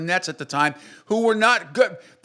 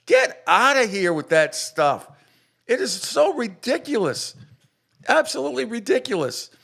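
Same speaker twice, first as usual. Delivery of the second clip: much higher, scornful dismissal; 8 semitones higher than usual. Real, not acted. Ridiculing radio host.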